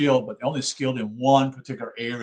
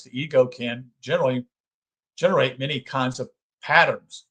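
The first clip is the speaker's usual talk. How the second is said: measured, formal book reading; reading aloud; 3 semitones higher than usual. Acted. Lecturer reading a psychology book to listeners, measured read-aloud. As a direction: read the text out in deliberate phrases.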